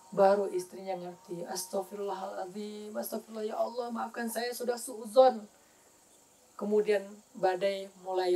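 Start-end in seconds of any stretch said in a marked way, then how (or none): 1.5-5.5 remorseful murmur. Retold or imitated. Wife repents quietly.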